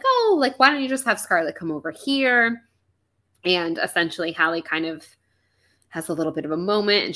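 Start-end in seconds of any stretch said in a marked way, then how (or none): 0.0-2.6 high, sweet imitation of mom; high mock mom. Mom suggesting Scarlet come over, in a high mock voice. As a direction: chirp it like a prying mother. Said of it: "she's like".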